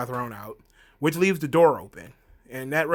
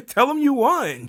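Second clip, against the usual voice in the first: breathless giggling aside; laughing whisper; 11 semitones higher, 6 dB louder than usual. Real, not acted. Mocking Roman's line, laughing in a breathy whisper. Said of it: "I'm like".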